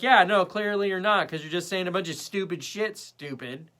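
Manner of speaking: loud exasperated comeback, dropping off at the end; retold irritation, punched hard at first; angry retort. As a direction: re-enact snapping back at someone. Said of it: "getting more and more angry".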